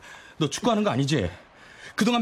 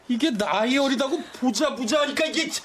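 choked frustration; 4 semitones higher than usual. Acted. Frustrated fight, crying heard.

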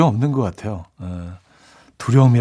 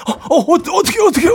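stuttering, much higher voice, overwhelmed; stammering disbelief; 3 dB louder, faster than usual. Shown as a demonstration. Husband stunned by the news, stammering in shock. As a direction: stumble over the words as if you can't believe it. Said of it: "막, 막 이런 거 있잖아요".

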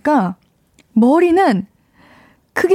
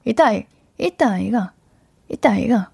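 Gyeongsang dialect attempt; 2 semitones lower than usual. Shown as a demonstration. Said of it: "나 좀 잘한 것 같아".

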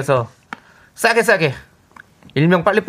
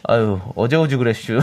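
Chungcheong dialect; 4 semitones lower than usual. Retold or imitated. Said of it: "옛날 개그 있잖아요".

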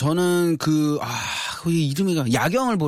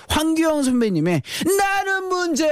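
emphatic announcer; 11 semitones higher than usual. Acted. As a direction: belt out the song title. Announcing song title with flourish.

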